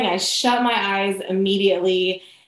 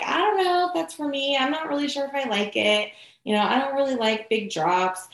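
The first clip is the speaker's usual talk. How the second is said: hesitant hinting; 5 semitones higher, 3 dB quieter than usual. Retold or imitated. Giving reluctant hints to boyfriend.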